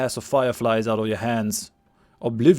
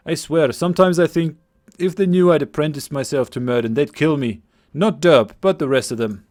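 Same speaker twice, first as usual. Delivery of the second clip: put-on lightly overdone Scottish accent; a young villager's Scottish lilt; 4 dB louder than usual. Game master voicing Cillian to the party, Scottish accent. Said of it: "my attempted Scottish accent".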